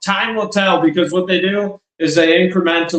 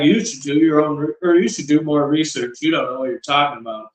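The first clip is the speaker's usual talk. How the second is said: quiet, quick mock brush-off; condescending; 2 semitones lower, 3 dB quieter, faster than usual. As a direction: lightly imitate a smug politician dismissing the question. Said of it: "They're like".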